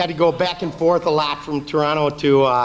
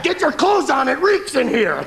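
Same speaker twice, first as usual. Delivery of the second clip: pilot voice; 10 semitones higher, 4 dB louder than usual. Retold or imitated. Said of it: "The pilot said".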